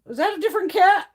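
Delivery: a hint of bewildered husband; imitating confused husband. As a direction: act baffled at a strange cat. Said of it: "he'd be like".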